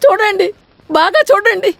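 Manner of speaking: crying, pitch climbing on each look; tearful accusation. Acted. Wife crying to mother-in-law, showing the son's secret photos. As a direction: push the proof at them through tears.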